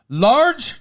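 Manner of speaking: high-pitched imitation of a doubting waitress; incredulous waitress. Waitress returning to the table to check, high mock disbelief. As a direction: mimic a one-word disbelieving check. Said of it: "and she said".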